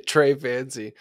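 put-on Trey Fancy in a hammy French accent, a laugh first; mock French accent. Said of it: "watched enough Fancy Nancy".

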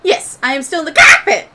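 loud, high, exasperated droid; Proto. Acted. Game master's droid answering the crew from cockpit, exasperated. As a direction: shout it up high, punching the last word.

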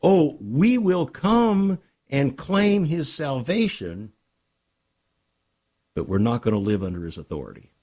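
a lightly voiced, smug churchgoer brushing off authority; mocking worldly believer. Preacher mocks believers refusing Christ's rule, scornful mimicry. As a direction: mimic the careless believer with a sneer.

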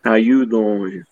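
slow, drawn-out doll greeting; goofy toy voice. Pretend.

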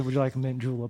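lightly put-on Southern drawl. Farmer offering travelers a mint julep, Southern drawl. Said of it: "Give me a southern drawl".

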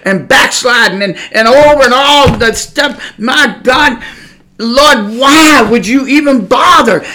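pleading argument. Retold or imitated. Preacher arguing his unworthiness to the Lord, loud plea. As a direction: argue with God, exasperated.

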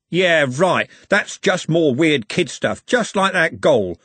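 slow, scornful thug voice; sneering Shank. Acted. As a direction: sneer it out slowly.

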